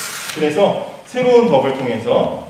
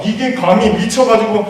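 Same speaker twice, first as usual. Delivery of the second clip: king shouts his accusation, pitched up and loud; outraged yell; 6 semitones higher, 4 dB louder than usual. Acted. King sees Haman over his wife, roaring in outrage. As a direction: bellow it as a jealous husband. 오해를 하게 된 거예요.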